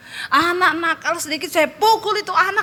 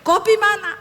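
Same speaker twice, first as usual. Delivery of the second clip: higher-pitched mock yell for coffee; demanding call, pitched up; retold yell; 7 semitones higher than usual. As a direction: imitate a husband calling out. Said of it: "Dia teriak".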